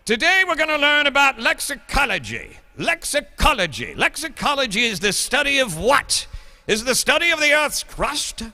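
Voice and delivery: hammed-up English accent lecturing students. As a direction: play a schoolmaster lecturing in a put-on English accent. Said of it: "I have no idea where the English accent came from".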